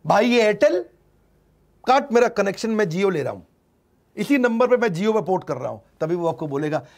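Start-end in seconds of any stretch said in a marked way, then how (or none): 0.1-5.8 louder and higher, demanding to cut the line; fed-up customer. Retold or imitated. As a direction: bark at the phone company, fed up. Customer tells Airtel to cut connection.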